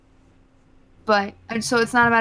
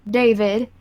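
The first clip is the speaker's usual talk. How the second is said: a touch of Southern in the vowels; name read out with a faint Southern lilt; slight Southern accent; 4 dB louder than usual. Real, not acted. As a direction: let a little Southern slip into the name. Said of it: "your Southern came out to play".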